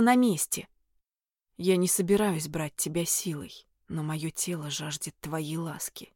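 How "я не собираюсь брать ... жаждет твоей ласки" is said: low and very quiet. A narrator's reading. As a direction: murmur it low and close. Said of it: "Низким голосом и очень тихо проговорил он".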